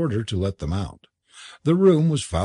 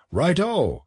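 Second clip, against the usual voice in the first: high, lightly raised exclamation; crying out; 7 semitones higher than usual. A narrator's reading. Club members agreeing to the Goblin's bond, crying out. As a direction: call assent with pitch lifted. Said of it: "cried several voices".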